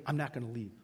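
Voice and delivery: put-on low, quiet drunken mutter; a surly drunk digging in; drunk man. Drunk man refusing to leave the shelter, low and quiet.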